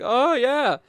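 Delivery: high, loud "oh, yeah"; retold enthusiasm. Player starts telling about his Meowth, acted-out enthusiasm.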